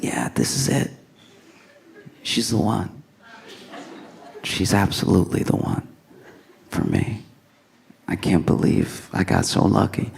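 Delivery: soft, sincere murmur; hushed, tender realization; imitating smitten boyfriend. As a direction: quietly marvel to yourself, in love. Boyfriend's inner thought before proposing.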